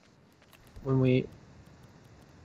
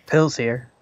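Coach voice. Acted. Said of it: "Coach voice".

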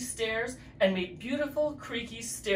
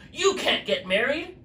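scary voice; 6 semitones higher, 5 dB louder than usual. Acted. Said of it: "said a scary voice".

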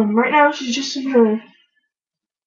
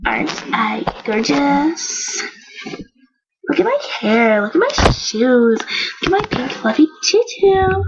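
showing off. Pretend. Doll Lexi showing off.

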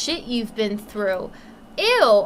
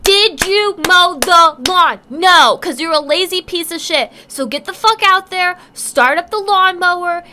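mock furious parent; 3 semitones higher, 7 dB louder than usual. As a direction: scream at the lazy kid like a furious mother. Mock angry parent rant.

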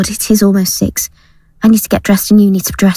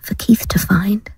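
worried; 4 semitones lower than usual. Acted. Gail alarmed about the knickers.

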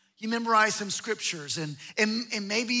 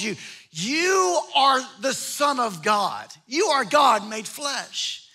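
building proclamation; 4 dB louder than usual. Acted. Peter's growing confession, building.

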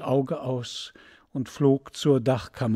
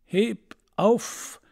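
sailors shouting; 7 semitones higher than usual. Acted. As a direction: heave call of sailors at the rope. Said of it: "schrien sie". (rufende Matrosen beim Ziehen, höher)

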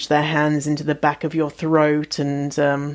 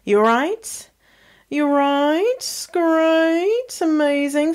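high, sing-song welcome; upbeat, slightly higher hello; bubbly greeting; 4 semitones higher than usual. Real, not acted. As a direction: greet the listeners brightly. Cheery greeting to listeners.

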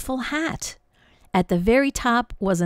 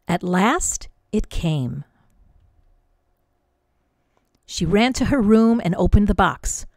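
lively storybook read-aloud; expressive picture-book narration; reading to children. A narrator's reading. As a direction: read it like bedtime story time for kids.

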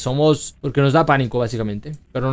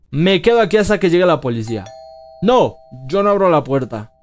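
scared; 2 semitones higher, 5 dB louder than usual. Real, not acted. Hiding under bed, scared.

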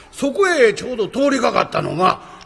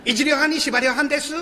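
mock angry shout; 6 semitones higher than usual. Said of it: "えらい声で怒りはりまんねんな".

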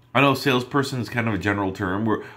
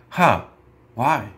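curious huh why; 4 dB louder than usual. Shown as a demonstration. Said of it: "ask that question".

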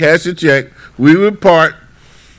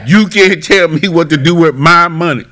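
retold anger; 2 semitones higher than usual. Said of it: "he would get angry".

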